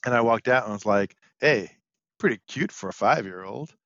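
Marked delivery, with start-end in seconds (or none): 1.4-3.7 creepy preschool teacher. Acted. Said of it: "the world's worst preschool teacher".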